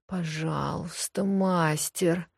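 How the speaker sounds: slow, soft, breathy plea; breathy moan. Acted. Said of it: "произнесённое на выдохе".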